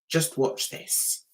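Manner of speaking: slow, whispered resolve; hushed self-talk. Retold or imitated. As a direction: whisper it slowly to yourself. Retold hushed resolve to herself.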